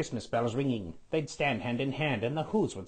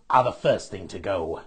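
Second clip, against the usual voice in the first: grinning Grinch; 5 semitones lower, 6 dB louder than usual. A narrator's reading. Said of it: "he grinned".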